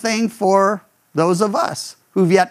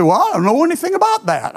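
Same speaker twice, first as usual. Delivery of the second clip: higher, quicker, playfully puzzled voice; clueless unbeliever; 10 semitones higher, faster than usual. Acted. Role-play partner who knows nothing of Jesus, higher and quick. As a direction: act out someone who's never heard. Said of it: "The other one's gonna have to say".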